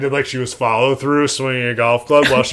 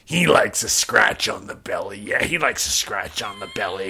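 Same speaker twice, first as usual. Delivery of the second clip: lower, softer doting murmur; low cooing husband; 3 semitones lower, 5 dB quieter than usual. Retold or imitated. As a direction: coo it to the dog, low. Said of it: "he goes".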